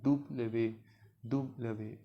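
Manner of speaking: दुबलवे in separated parts, दुब-ल-वे; French letter name. Shown as a demonstration. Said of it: "French में इसको लिखते हैं".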